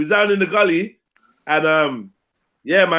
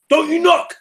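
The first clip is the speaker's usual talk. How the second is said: goat's voice; 8 semitones higher, slower than usual. Acted. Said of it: "the goat turns around and says".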